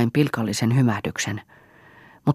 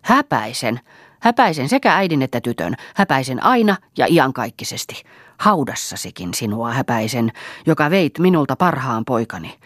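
spiteful. Acted. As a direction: spit the curse at her. Mother-in-law curses Marja. (vihainen kirous)

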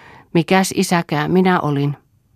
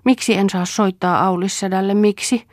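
put-on pleading boy; 6 semitones higher than usual.

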